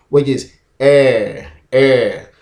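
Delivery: the sound air drawn out for learners; sound demo. Shown as a demonstration. Teacher modelling air for students, slow and clear. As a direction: air spelled out slowly. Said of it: "to form a single sound".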